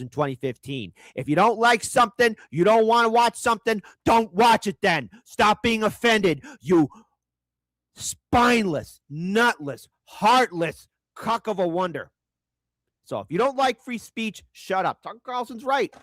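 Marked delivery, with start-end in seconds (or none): 5.2-12.1 slow, punched insults; slow scornful insult string; contemptuous. Real, not acted. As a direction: spit each insult slowly. Insulting viewers slowly.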